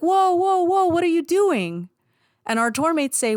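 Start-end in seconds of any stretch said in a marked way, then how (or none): 0.0-1.9 high, startled protest; mock alarmed crowd of kids. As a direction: stop them from leaving, alarmed. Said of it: "And the kids are like".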